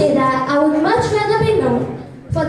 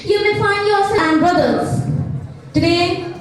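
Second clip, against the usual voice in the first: slow, sing-song inspirational oratory; formal speech; slower than usual. Acted. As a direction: recite it like a school declamation. Declaims a motivational speech.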